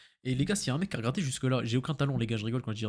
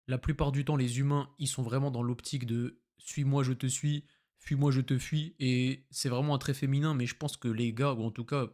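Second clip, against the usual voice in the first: parler lentement. Shown as a demonstration. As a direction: take your time, leaving gaps between phrases. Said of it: "Je vais essayer de te parler lentement". (parler lentement, de manière posée)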